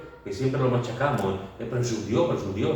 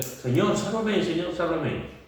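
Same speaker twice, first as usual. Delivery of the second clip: mild cry for help; 6 semitones higher, slower than usual. Retold or imitated. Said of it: "dio voces".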